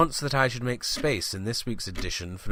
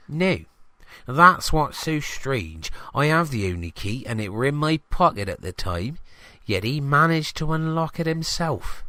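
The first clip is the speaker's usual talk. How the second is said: higher, chatty village shopkeeper voice; gossipy greengrocer; 6 semitones higher than usual. Acted. Greengrocer telling the reporter about his stolen van, higher and chatty.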